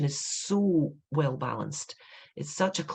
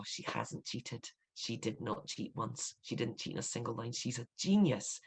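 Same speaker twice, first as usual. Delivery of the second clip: almost whispered, much softer, in quiet wonder; hushed awe; 4 semitones lower, 8 dB quieter than usual. Retold or imitated. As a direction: breathe it out as a stunned discovery. Retold realization rereading the book.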